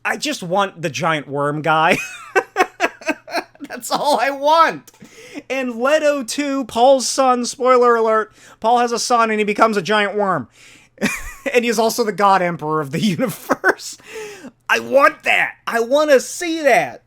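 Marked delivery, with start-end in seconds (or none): 2.0-3.5 sudden high giggle; high burst of laughter. Real, not acted. Laughing as he admits he wants the worm guy. 3.6-4.9 higher, slow, laughing through it. Real, not acted. Laughing as he tells viewers his one wish. 5.5-17.0 higher and louder, gushing; excited. Real, not acted. Gushing to viewers about the worm, excited and loud.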